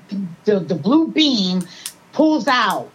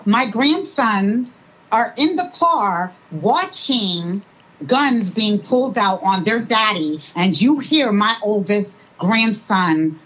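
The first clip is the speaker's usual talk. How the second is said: getting emotional; 2 semitones higher than usual. Real, not acted. Grandmother on grandsons seeing guns pulled on their daddy, getting emotional. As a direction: hold back emotion, dragging the words. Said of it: "I'm sorry, I'm getting emotional".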